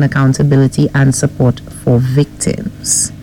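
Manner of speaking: measured newsreader delivery; news headline read. Real, not acted. Co-host reads morning headlines to host and listeners, newsreader style. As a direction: read out the headlines as a radio presenter.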